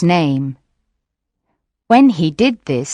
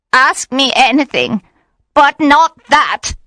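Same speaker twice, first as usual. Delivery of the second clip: high-pitched witch's plea; tearful pleading; 7 semitones higher, 4 dB louder than usual. A narrator's reading. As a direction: beg the captor, voice raised high. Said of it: "She began to cry".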